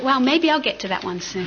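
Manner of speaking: amused naive hope, laughing; laughing through it. Retold or imitated. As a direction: giggle while saying it. Retold naive thought, laughing.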